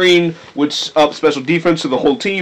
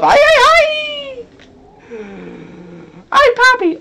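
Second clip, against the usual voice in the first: stereotypical Mexican exclamation. Acted. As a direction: ham up a stereotypical Mexican yell. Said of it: "making them stereotypically Mexican".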